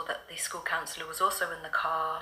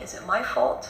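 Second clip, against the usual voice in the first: daughter's anxious question; 6 semitones higher, 10 dB louder than usual. Retold or imitated. Daughter's worried question retold.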